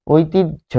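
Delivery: ঐতিহ্য as "oitij", then a separate "jho"; careful pronunciation. Shown as a demonstration. Teacher answers what the pronunciation is, careful pronunciation. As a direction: detach the final jho of ঐতিহ্য. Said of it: "কিন্তু উচ্চারণ কি?".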